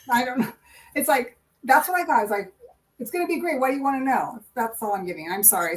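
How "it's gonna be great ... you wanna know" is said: voiced spirit message. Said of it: "somebody who talks like that".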